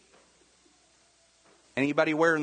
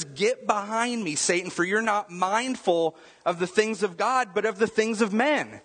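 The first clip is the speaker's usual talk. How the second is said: Jesus rebuking Peter, raised and firm; stern rebuke, a touch higher; 3 semitones higher than usual. Retold or imitated. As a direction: rebuke him with authority. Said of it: "He says".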